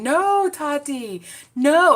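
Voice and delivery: high, slow, loud meme voice; mock "No, Tati" ringtone. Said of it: "to have your phone saying".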